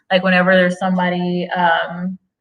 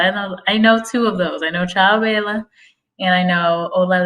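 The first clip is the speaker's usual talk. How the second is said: normal talking voice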